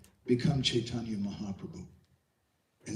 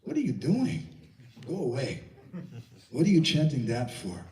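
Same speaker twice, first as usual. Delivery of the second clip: Radharani scolding; 2 semitones higher, 4 dB louder than usual. Acted. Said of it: "Radharani may look at you and say".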